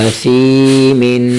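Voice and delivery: اسیمن with its own ث sound, not a plain س, read slowly. Shown as a demonstration. Teacher showing ث apart from س in اسیمن. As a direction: keep the ث in اسیمن distinct from س. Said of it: "سا کو سین نہیں پڑھنا".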